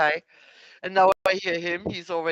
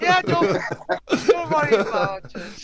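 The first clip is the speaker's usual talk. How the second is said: higher, louder, laughing through the words; laughing reassurance; 8 semitones higher, 5 dB louder than usual. Real, not acted. Co-guest teasing the host about the channel, laughing reassurance. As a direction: brush off the worry with a laugh.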